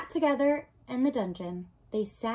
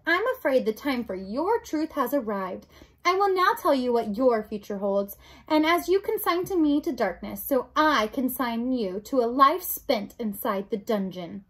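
lightly voiced villain passing sentence; emphatic, with a hint of menace; Roscuro, menacing rat; 4 dB louder than usual. Rat sentences the princess to the dungeon, lightly voiced menace.

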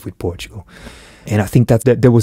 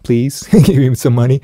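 higher, hammed-up plea for funding; mock eager applicant; 4 semitones higher than usual. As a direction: raise your hand and beg, half-laughing. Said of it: "putting your arm up in the air and going".

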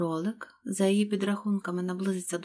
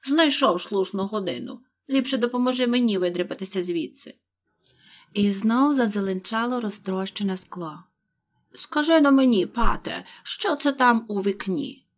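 loud, irritated master scolding; angry rabbit; 6 dB louder than usual. Acted. Rabbit scolding his servant Pat, loud angry. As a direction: snap at the lazy servant, loud.

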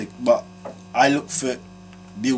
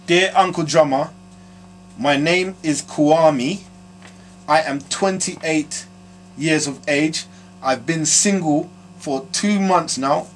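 reading a letter; slower than usual. Shown as a demonstration. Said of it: "The next one says".

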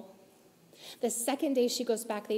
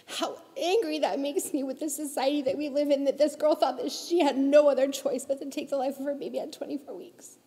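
indignant, pushing louder; real anger; 3 semitones higher, 4 dB louder than usual. Real, not acted. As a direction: let real anger drive it. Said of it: "Do you know how angry that makes me".

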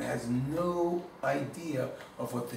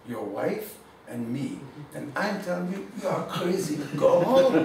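lightly voiced rebbe. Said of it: "He goes".

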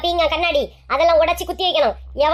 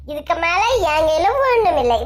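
mock crying. Visitor leaving the rival's house, with hammed-up mock crying. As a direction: fake tearful wail on ஒண்ணும், hammed-up sorrow.

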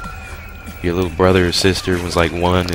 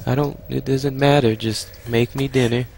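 higher, softer soothing voice; mock consoling; 7 semitones higher, 5 dB quieter than usual. Gamer to a crying boss who is sorry, mock soothing. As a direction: playfully comfort someone who is crying.

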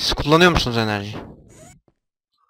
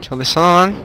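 frustrated yell; 6 semitones higher, 4 dB louder than usual. Real, not acted. Frustrated at broken machine.

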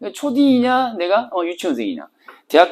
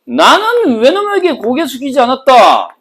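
higher, louder boastful declaration; proud defiant speaker; 8 semitones higher, 5 dB louder than usual. Pretend. Teacher voicing the speaker, proud of not bowing. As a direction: proclaim your defiance with pride. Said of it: "화자 입장에서 한번 써본다면은".

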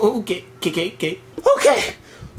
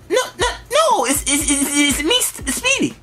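stuttering cartoon pig; 3 semitones lower than usual. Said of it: "Is that really how you talk".

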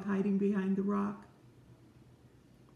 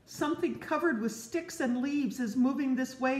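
mock alarmed cry; 6 semitones higher than usual. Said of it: "cried a squirrel".

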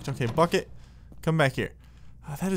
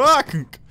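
a short cry up high and loud, as if cracking your head; mock pained yelp; 8 semitones higher, 6 dB louder than usual. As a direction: someone slipping on the stairs, a mock yelp. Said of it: "You just go".

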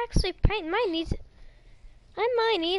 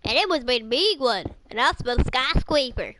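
pirate voice. Retold or imitated. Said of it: "aren't you supposed to be saying".

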